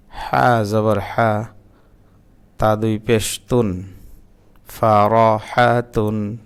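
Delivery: name each letter and its vowel mark, then the syllable; slow letter-by-letter spelling drill; spelling out Arabic letters. Shown as a demonstration. Teacher spelling out Arabic syllables for learners, measured and deliberate. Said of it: "তখন আপনি বানান করবেন".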